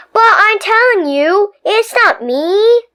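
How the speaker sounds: urgent hushed plea; whispering denial; whispered protest. Acted.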